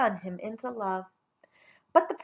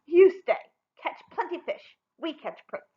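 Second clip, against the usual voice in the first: mocking order; 6 semitones higher, 4 dB louder than usual. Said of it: "Her sisters hooted so hard".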